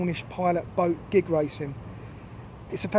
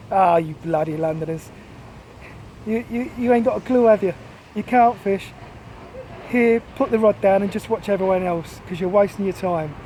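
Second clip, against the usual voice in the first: mocking Cornish accent. Cornish fisherman ribbing his Londoner friend, mocking in an attempted Cornish accent. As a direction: poke fun in a rough try at Cornish. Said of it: "in his Cornish accent while poking fun at me".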